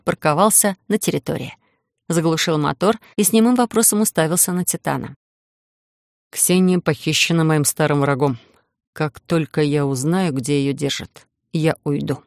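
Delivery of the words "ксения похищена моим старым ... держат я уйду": slow, deliberate, lower voice; slow and measured. Acted. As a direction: weigh every word slowly. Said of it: "Медленно и с расстановкой заговорил Иден".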